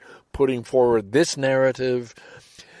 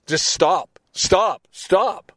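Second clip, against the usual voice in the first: insistent plea; 6 semitones higher, 4 dB louder, much slower than usual. Real, not acted. Pleading for ceasefire.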